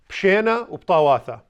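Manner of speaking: "Pshena uptawatha" 清楚念出，尾音下降; 示范回答 "Pshena uptawatha"; model reply. Shown as a demonstration. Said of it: "the typical response is".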